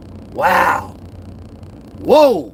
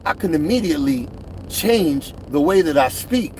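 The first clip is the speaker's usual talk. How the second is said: corporate voice; 7 semitones lower, 4 dB quieter than usual. Shown as a demonstration. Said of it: "if I need to get in the corporate setting".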